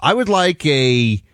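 prissy cider order. Retold or imitated. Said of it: "and he's like".

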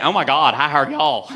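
lightly voiced Southern belle; sweet-talking Southern woman's lilt; Georgia peach lilt. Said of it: "got that Georgia peach lilt to it".

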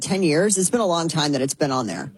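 ordinary delivery

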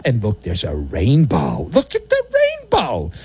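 sarcastic nursery voice pointing at a rainbow; mock kiddie voice. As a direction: coo it like talking to a toddler. Mocking kiddie team media.

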